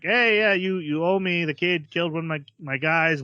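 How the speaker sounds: yakuza boss gloating as he demands payment; greedy boss. Retold or imitated. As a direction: pounce on the chance to collect. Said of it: "He's like".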